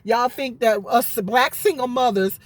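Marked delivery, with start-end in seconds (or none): 1.2-2.4 "black" punched a little before "single mothers"; stress on black. Real, not acted. Vlogger defending single mothers to critics, stress on "black". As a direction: lean on the word "black". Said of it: "I put emphasis on black".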